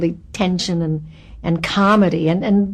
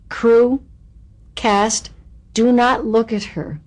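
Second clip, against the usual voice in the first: firm, spaced-out command, a little raised; director's announcement; 3 semitones higher, slower than usual. Retold or imitated. Burt instructs crew and cast, firmly. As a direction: address the room, pausing after each group.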